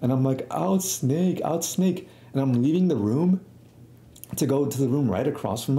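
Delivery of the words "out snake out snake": higher, sing-out imitation of yelling; mock yell. Kid running around trying to hook people, mock yelling. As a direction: pretend to holler, keeping the volume down.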